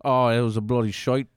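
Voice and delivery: hammed-up Australian grumble; mock Australian accent. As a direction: play a disappointed Australian listener. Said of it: "Any Australian listeners".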